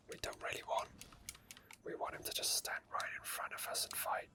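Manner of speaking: normal talking voice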